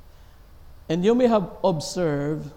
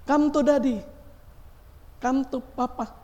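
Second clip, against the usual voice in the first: much higher, sing-song cooing; cooing to a baby; 12 semitones higher than usual. Retold or imitated. Father coaxing his baby to come, high cooing. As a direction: call the baby over sweetly. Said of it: "The very first word you teach".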